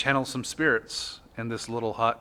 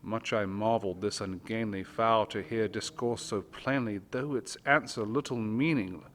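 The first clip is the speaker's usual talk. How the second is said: dramatic poem reading. Acted. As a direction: read it like a candlelit ghost story. Reads The Raven aloud.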